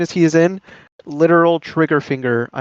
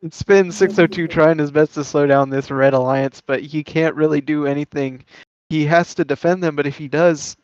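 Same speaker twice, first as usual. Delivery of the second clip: play-by-play commentary. Acted. Live match play-by-play.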